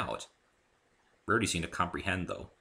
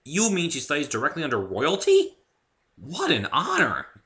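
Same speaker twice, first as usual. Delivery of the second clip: astounded; 8 semitones higher, 7 dB louder than usual. A narrator's reading. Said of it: "I asked, astounded".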